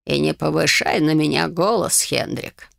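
a hint of an old man, fading to a whisper on Хендрик; lightly voiced old man scolding; old man's rebuke. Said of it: "старик". (старик тихо отчитывает, в конце шёпотом)

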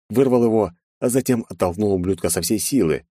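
plain reading voice

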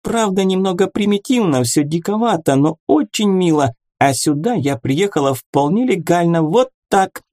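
high, quick chatter; rattling fast. A narrator's reading. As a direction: rattle it off breathlessly. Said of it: "затараторила".

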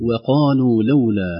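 وقالوا with a light, thin waw and a heavy qaf; reciting wakalu. Shown as a demonstration. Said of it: "نقول".

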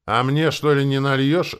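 loud, high-pitched indignant question; barked demand. A narrator's reading. Talking dog demands a drink too, barking. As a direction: bark it out, demanding a share. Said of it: "рявкнула собачка".

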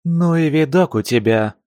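mock growl at his look. A narrator's reading. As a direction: growl it out with a sneer. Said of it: "рычания".

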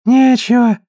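high whimpering whine; whining. Acted. Old mother to Marge, a high whimpering whine. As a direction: whine in despair. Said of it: "проскулила мама".

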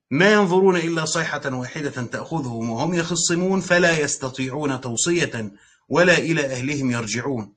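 measured recitation of the verse; Quran recitation. Shown as a demonstration. Recites verse before explaining.

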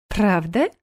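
sugary sweet sly question; syrupy sarcastic query; honeyed mock question. A narrator's reading. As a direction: ask it with false sweetness. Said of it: "елейным тоном переспросила Ирина".

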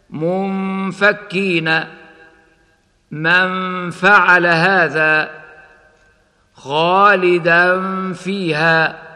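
slow منفكين, the ن held as a hum before ف; ikhfa before ف. Shown as a demonstration. Teacher demonstrating ikhfa before ف, slow recitation. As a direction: recite خالدا فيها with the tanween hidden and held. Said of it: "هكذا".

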